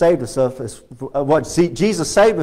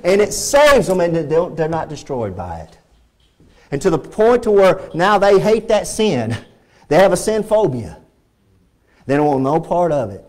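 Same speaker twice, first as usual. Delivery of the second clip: usual speaking voice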